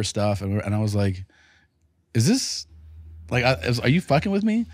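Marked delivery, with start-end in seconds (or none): 2.1-4.7 laughing disbelief. Retold or imitated.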